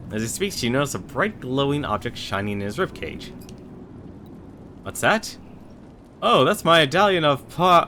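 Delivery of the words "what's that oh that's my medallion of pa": dark lord. Acted. Skeleton voices his treasure.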